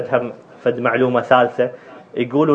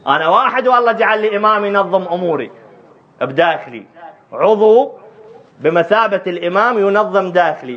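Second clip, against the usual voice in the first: raised, higher preaching voice; insistent rhetorical challenge; impassioned argument; 4 semitones higher than usual. Acted. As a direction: press the argument home to the congregation.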